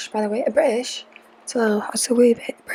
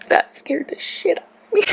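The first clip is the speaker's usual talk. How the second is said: laughing after a scare; 8 semitones higher than usual. Real, not acted.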